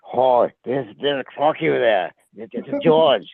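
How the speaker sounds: lightly voiced Australian wildlife presenter; a touch of Australian croc-spotter narration; Steve Irwin. Spotting George like a crocodile, lightly Australian narration. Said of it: "Oh, you mean Steve".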